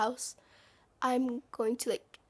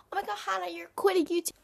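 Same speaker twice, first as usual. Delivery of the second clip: mock shocked fan; 6 semitones higher, 4 dB louder, much faster than usual. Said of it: "you're gonna be like".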